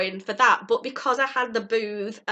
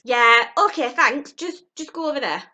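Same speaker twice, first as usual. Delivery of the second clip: brushing off the critic, a bit louder; dismissive; 3 semitones higher, 5 dB louder than usual. Retold or imitated. Telling the inner critic to go away, dismissive. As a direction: wave the doubt away. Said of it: "say to that voice".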